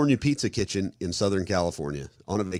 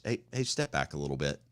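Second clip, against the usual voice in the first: softer, lower and calm; 4 semitones lower, 6 dB quieter than usual. Shown as a demonstration. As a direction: say it quietly, almost under the breath. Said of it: "said it in a really low tone of voice".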